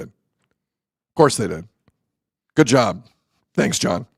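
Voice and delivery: slow, drawn-out sarcasm; sarcastic. Real, not acted. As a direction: drag it out in disbelief. Repeated sarcastic aside.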